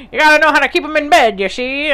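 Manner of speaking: hammed-up grandma as forties gangster; noir film gangster. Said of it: "sound like a fucking noir film gangster".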